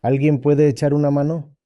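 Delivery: the fallen monk begs passers-by, half-acted shout; retold shouting for help. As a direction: play the stuck monk begging anyone to help. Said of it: "estaba gritando".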